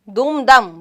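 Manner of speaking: دم دم as "dum, dam", slowly; first دم with "u", second دم with "a"; contrasted short vowels. Shown as a demonstration. Teacher contrasting look-alike words, دم دم said "dum, dam". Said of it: "دونوں لفظوں کا فرق واضح".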